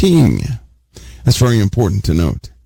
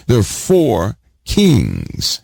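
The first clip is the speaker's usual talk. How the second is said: "They're four kings" drawn out very slowly, each word leaned on; preacher hammering "kings" home; slow stress on kings; much slower than usual. Shown as a demonstration. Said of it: "the reason I'm giving this emphasis".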